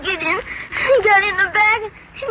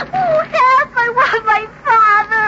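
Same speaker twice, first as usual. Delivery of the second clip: put-on crying child. Frightened child trapped in drone.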